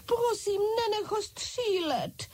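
very high, slowed, begging voice; pleading cry. A narrator's reading. French doll begging Ančka not to shoot, high plea. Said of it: "křičela malá Francouzka".

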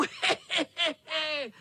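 vysoký škodolibý smích; kočičí chechtání. Acted. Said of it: "Chechtal se kocour". (kocour se chechtá, škodolibě)

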